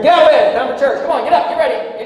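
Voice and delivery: hammed-up father rousing the kids; imitated dad waking kids. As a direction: bark them out of bed like a bossy dad.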